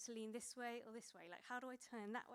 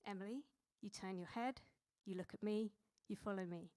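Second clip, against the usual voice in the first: put-on firm, steady coaching commands, no accent; lightly voiced ski teacher guiding a pupil; instructor's tone; 3 dB louder than usual. Snowboard teacher calling instructions to Emily, lightly voiced, firm and steady. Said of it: "he would say it in this tone".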